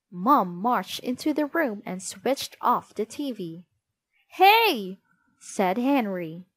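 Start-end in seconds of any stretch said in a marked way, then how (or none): 4.3-5.0 indignant. A narrator's reading. TV switched off mid-show.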